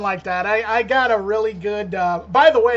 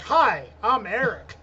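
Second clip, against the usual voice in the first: drawn-out mock greeting with swooping tune; lightly hammed-up, slowed hello; podcast intro. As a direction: play the co-host introducing himself. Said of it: "And you're like".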